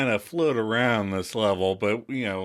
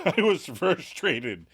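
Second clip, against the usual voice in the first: slow, mildly frustrated admission; Monica, frustrated; 4 semitones higher, slower than usual. Retold or imitated. Monica explaining herself to Chandler, mildly frustrated. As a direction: imitate confessing frustration slowly, a little higher. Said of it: "Monica reveals".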